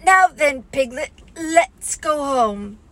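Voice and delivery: slow, gentle Pooh bear; Pooh's voice. A narrator's reading. Pooh to Piglet, slow and kind. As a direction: lead the little one home, slowly. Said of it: "Pooh leading Piglet".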